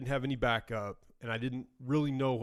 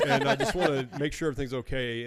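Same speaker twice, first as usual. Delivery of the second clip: laughing while talking; 5 dB louder than usual. Real, not acted.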